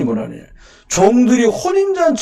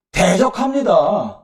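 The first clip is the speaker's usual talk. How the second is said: slow emphatic; much slower than usual. Shown as a demonstration. Slow emphatic preaching word.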